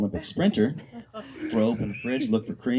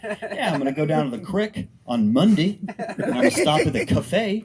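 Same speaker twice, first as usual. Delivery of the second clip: mocking hillbilly accent, pitched up; sarcastic, higher hillbilly talk; 7 semitones higher, 4 dB louder than usual. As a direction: exaggerate the hillbilly pronunciations. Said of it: "fucking hillbilly".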